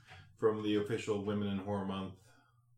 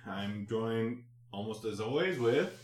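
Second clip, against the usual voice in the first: slow, upbeat welcome; podcast host intro; slower than usual. Acted. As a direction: announce the show like a host.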